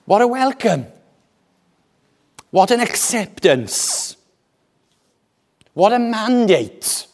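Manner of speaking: high, admiring exclamation with falling end; thrilled exclamations. Acted. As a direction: marvel aloud, pitched well up. Preacher voices delight at the welcome.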